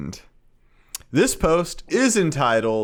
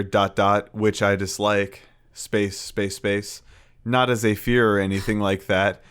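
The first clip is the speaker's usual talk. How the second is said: deadpan reading; 4 semitones lower than usual. Pretend. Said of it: "Just gonna play it straight".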